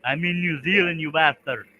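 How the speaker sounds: put-on a light stab at a New Zealand accent; playful weird Kiwi voice. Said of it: "I'm just using a weird voice".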